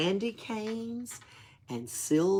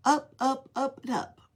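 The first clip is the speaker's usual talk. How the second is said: rising excitement; 8 semitones higher than usual. A narrator's reading. Climbing up the tree.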